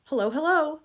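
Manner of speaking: high, loud parrot call; parrot's greeting from up the chimney. Acted. Parrot repeats.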